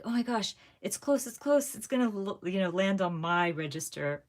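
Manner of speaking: urging the wheel on, rising hope; excited. Retold or imitated. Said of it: "I'm just like".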